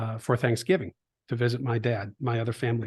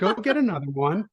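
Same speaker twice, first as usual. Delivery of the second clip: laughing; 6 semitones higher than usual. Retold or imitated. Dad laughing retelling his reply.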